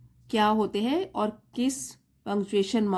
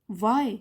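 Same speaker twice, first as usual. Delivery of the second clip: 'Why' set apart as its own question; standalone question. Shown as a demonstration. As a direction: ask 'Why' alone, then stop. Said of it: "यहाँ पे भी question mark आ गया". ('Why' अलग सवाल की तरह, फिर विराम)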